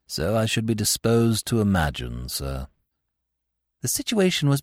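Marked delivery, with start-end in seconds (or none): 0.1-2.7 low, quiet, unruffled valet; deferential, measured and pitched well down; imperturbable valet. Acted. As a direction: discreet servant in a low, even voice.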